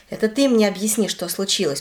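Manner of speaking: plain reading voice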